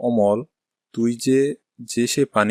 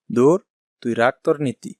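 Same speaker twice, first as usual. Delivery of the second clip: angry brush-off. Acted. Shopkeeper dismissing rival's advice with scorn. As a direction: wave him off with contempt. Amal rebuffs Kamal's advice.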